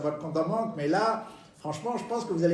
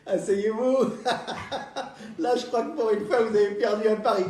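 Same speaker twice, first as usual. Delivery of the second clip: gloating banker; 5 semitones higher, 3 dB louder than usual. Acted. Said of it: "il a la banane".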